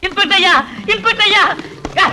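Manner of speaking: high-pitched cry for help; urgent calling out. Acted. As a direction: call out for the inspector, high and pressing. Man calls urgently for inspector's help.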